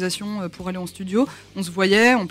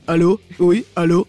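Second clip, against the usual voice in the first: phone greeting; 2 semitones lower, 7 dB louder than usual. Retold or imitated. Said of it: "on a fait".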